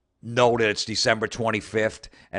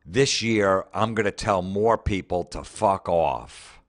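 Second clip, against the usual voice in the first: louder, punchy resolve; mock tough-mom vow, louder; defiant declaration; 6 dB louder, slower than usual. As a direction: read it like a bold new year vow. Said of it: "three days later".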